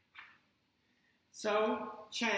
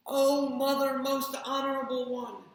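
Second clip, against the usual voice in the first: breathless and louder, higher; panting; 5 semitones higher, 7 dB louder than usual. Acted. Chang breathless, calling to his mother. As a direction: pant out the words. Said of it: "he panted".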